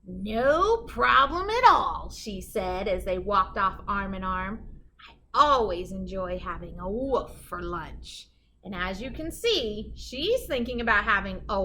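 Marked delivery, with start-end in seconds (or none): 0.0-8.3 slow, drawn-out sly promise; sly witch. Acted. Witch sweetly hiding her hunger from the wolf. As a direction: savour every word.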